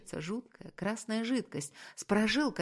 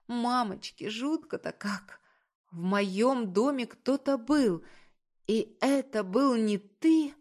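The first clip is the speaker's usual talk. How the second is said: high, slowing cry that builds louder; panicked wail; 5 semitones higher, 4 dB louder than usual. A narrator's reading. Woman realising an intruder was in her home, wailing in panic. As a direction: build from dread into a loud, drawn-out wail. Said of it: "воплю срывающимся голосом".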